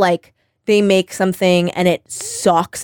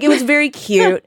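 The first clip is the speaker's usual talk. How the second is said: ordinary talk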